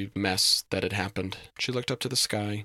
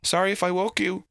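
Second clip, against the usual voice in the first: high, loud, anxious apology; nervous; 11 semitones higher, 5 dB louder than usual. A narrator's reading. Goblin apologizing for waking Reese, nervously. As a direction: apologize nervously in a raised pitch. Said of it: "said David nervously".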